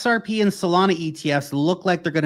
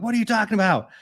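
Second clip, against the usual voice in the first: put-on confused kid; 9 semitones higher, faster than usual. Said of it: "I'm like".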